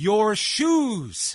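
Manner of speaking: loud, high-pitched shouting yell. Describing a man yelling into the camera during an entrance, retelling a yell. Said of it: "he just yells".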